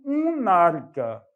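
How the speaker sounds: "un arca" drawn out; slow emphasis. Shown as a demonstration. Teacher modelling the alternative article, slowly. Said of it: "Ou então".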